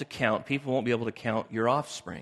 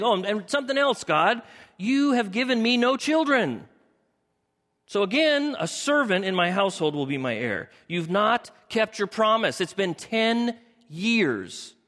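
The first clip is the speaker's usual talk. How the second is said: exasperated Abram; 6 semitones higher than usual. Acted. Preacher playing Abram as he complains to God, high and exasperated. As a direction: whine it up at God, stretching the words. Pastor voices Abram's grievance.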